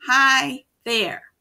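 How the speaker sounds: a touch of cartoon voice; character greeting. Shown as a demonstration. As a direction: say it like the character would. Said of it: "He didn't say".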